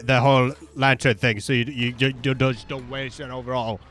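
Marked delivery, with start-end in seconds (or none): none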